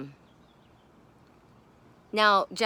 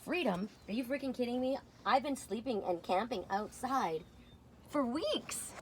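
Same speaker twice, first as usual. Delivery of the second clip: grumpy cat voice; 3 semitones higher, 8 dB quieter than usual. Pretend. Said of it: "Sammy says".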